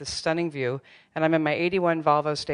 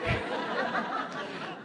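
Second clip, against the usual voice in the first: retold laugh; 9 dB quieter than usual. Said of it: "and she was like".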